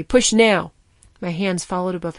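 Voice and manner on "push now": loud urgent command, higher; urgent order. A narrator's reading. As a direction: demand it now. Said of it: "she ordered me".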